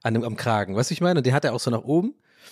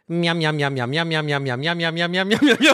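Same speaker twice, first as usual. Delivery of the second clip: playful mouth-noise munching, breaking into a laugh at the end; Homer munching noises; 4 semitones higher than usual. Retold or imitated. Retelling a Simpsons clip, Homer's munching chant. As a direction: chant miam like Homer daydreaming of food. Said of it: "Und dann kommt".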